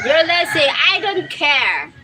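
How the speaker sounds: lightly voiced rooster calling lazy; a hint of rooster scold. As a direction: rooster jeering. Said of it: "The roster said".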